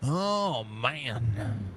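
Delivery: talking through a yawn; stretched sleepy yawn. Real, not acted. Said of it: "Excuse me for the yawn".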